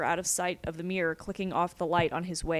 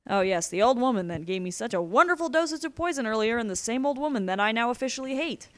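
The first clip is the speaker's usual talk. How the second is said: raised, mock-appreciative retort; sarcastic; 4 semitones higher, 4 dB louder than usual. Prisoner recalling the old woman's poison, sarcastically. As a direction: heap fake praise with higher, louder emphasis.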